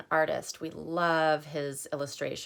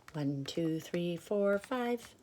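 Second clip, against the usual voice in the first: soft counting; 7 dB quieter, slower than usual. Real, not acted. Counting softly to kids.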